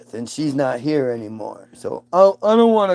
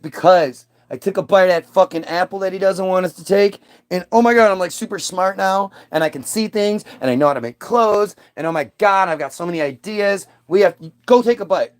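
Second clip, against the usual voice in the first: excited Eve; 4 semitones higher than usual. Acted. Eve voiced, excited after apple.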